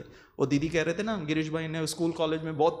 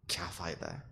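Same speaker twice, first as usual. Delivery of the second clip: ऊबा हुआ ताना; 9 semitones lower, 11 dB quieter, faster than usual. Retold or imitated. खिलाड़ियों की ऊब की नकल.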